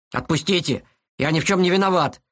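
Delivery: put-on boy snapping back, straining. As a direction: snap it out while held tight. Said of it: "огрызнулся Илья". (огрызаясь, вырываясь)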